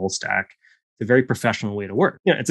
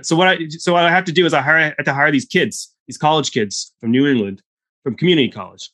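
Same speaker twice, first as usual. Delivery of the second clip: lightly imitated old Texan, higher; a hint of Texan old-timer; Texan accent; 5 semitones higher than usual. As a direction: spin the yarn as an old Texan. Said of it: "accent every single time".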